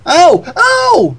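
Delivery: high, loud cheerful call; cheerful yell. Acted. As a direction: shout out happily from a distance. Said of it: "a loud, cheerful voice yelled out".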